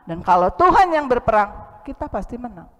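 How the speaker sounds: rousing preacher's declaration; forceful preaching. Acted. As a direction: proclaim it to the church. Preaching climax.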